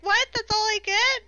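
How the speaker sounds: high, loud indignant mock voice; imitated infant's soul. Infant's soul protesting to Death, imitated indignation. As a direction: protest like a short-changed little soul. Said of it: "you can hear the voice like".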